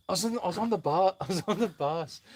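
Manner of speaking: hesitant go at a Scottish comic; half-formed Scottish comedian impression; Billy Connolly. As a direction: start a Scottish comedian's story, stumbling into the voice. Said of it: "he does this great story of him on a bus".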